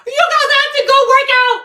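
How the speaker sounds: very high, loud shrieking laugh; hysterical laughter. Real, not acted. Streamer screaming with laughter at Tony's clip.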